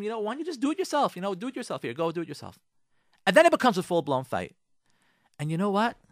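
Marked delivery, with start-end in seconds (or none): 0.0-2.6 snapping back. Acted. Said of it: "turn around to him and say to him".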